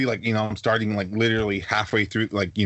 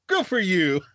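imitating grandpa; 9 semitones higher, slower than usual. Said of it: "And then my grandpa".

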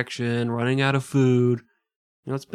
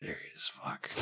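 hushed conspiratorial whisper; 16 dB quieter than usual. Retold or imitated. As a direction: whisper it so the captain won't hear. Crew whispering as captain comes.

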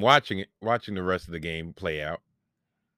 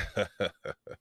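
retold chuckle; 6 dB quieter than usual. Acted reaction after "I was like.

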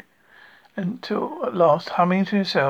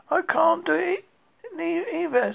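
high stuck Pooh; 11 semitones higher than usual. A narrator's reading.

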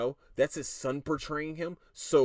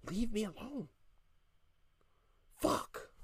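softer, exhausted sign-off to the rant; tired and quiet; 5 semitones higher, 7 dB quieter, slower than usual. Real, not acted. Tired vlogger shooing people off, soft and spent. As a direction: let it fall away, spent. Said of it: "I'm tired".

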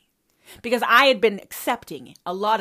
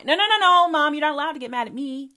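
ordinary talk, nothing marked

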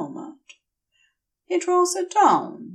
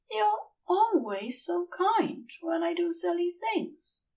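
an angel choking up as he thanks his friend; tearful Aziraphale; 7 semitones higher than usual. Acted. Aziraphale thanking Crowley, higher and tearful. Aziraphale voiced, emotional confession.

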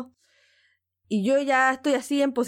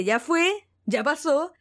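slow, soothing words to calm her down; slower than usual. Retold or imitated. Security guard calming an overexcited fan, slow and soothing. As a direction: talk her down slowly. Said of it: "Me dice".

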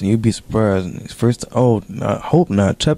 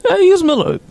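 disbelieving question. Real, not acted. Mocking friend sniffing.

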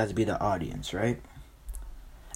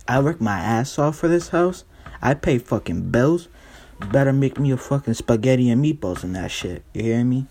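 put-on mildly worked-up, indignant boyfriend; demanding boyfriend; 4 dB louder than usual. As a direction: lay down the law to a girlfriend, half in earnest. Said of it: "Pat's like".

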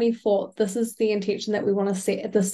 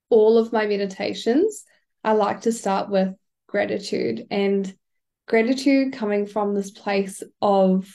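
ordinary talk

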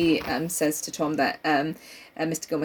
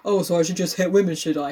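quick, snide mock voice; mocking sarcastic quote. Mocking people who twist the equal rights argument, quick and snide. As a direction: sneer it out as a fake gotcha. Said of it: "people are like".

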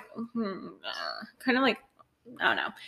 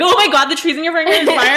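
fast quote broken up by laughter; laughing quote; 4 semitones higher, 5 dB louder, faster than usual. Retold or imitated. Laughing while quoting the panicked caller. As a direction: laugh through the retold call.

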